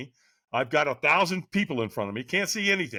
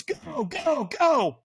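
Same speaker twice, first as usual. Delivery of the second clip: urgent urging; 12 semitones higher, much slower than usual. Retold or imitated. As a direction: send the runner off with rising force. Retold trainer urges runner.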